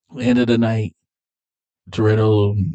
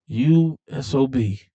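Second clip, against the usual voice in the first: slow, higher-pitched mock outrage; acted angry insult; 5 semitones higher, slower than usual. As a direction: draw out the insult in retold anger. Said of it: "now she's pissed".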